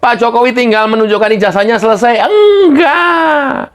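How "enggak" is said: a no broken by laughter; laughing no. Real, not acted. Host denying it's settled, laughing. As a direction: laugh the denial out.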